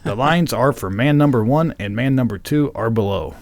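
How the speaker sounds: scene-setting narration; script read-aloud. Acted. Host reads the radio play setup, storytelling read-aloud. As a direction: narrate the biker intro from the page.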